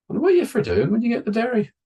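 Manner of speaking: high and fast nosy question; high prying kid. Retold or imitated. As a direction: rattle it off high and curious.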